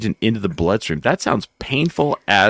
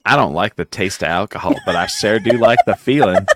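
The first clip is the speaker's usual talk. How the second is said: southern drawl. Acted. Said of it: "I don't know why I went southern".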